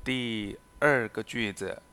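slow, careful reading of each example sentence; slow model reading. Shown as a demonstration. Teacher reading examples to Spanish learners, slow and careful. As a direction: read it out slowly for learners to copy.

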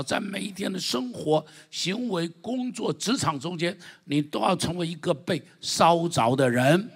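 激昂讲道; fiery preaching. Acted. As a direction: preach it hard to the congregation. Preaching at full force.

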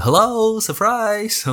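high, bright, teasing "surprise!"; spring it on them like a party prank; playful surprise. Pretend. Imagining waking up to surprise the doctor, playful high cry.

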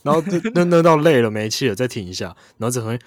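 high chirpy bird imitation; chirping bird person. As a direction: chirp it like a parrot singing scales. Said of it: "他只会怎样？".

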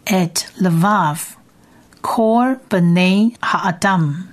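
et levav kol bnei ha'adam drawn out very slowly; slow Hebrew reading. Shown as a demonstration. Teacher models the second line for students, very slow. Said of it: "第二列的希伯来文是".

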